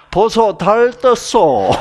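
high, slow Busan wife teasing through laughter; wife calling husband to see the moon, high and laughing; Busan wife's quip. Retold or imitated. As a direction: drawl it out like a teasing Gyeongsang wife. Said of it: "부산 여자가".

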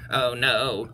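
lightly voiced, low bee; a low, dismayed bee murmur; buzzing bee. Bees hear of the coming sneeze, low dismayed voice. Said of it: "buzzed the bees".

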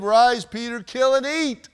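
voice from heaven. Acted. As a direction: boom it down from heaven. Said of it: "a voice came to him".

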